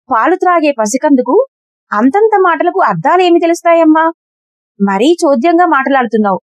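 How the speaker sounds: indignant mother refusing to believe; Yashoda refusing. Acted. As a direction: shake off the accusation firmly.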